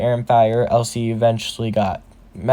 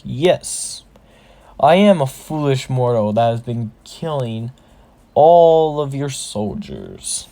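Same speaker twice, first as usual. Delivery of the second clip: goading. Acted. Deku provoking the orc shaman, mock-grand and goading. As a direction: needle him, stretching the final phrase. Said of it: "unaligned tone to annoy slash anger the orc shaman".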